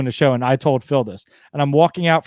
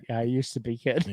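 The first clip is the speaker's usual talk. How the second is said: put-on much softer, weary veteran "Yeah, I used to be, kid"; old ballplayer; 6 semitones lower, 10 dB quieter than usual. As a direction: hand it down like an old retired player. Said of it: "like the old geriatric baseball player".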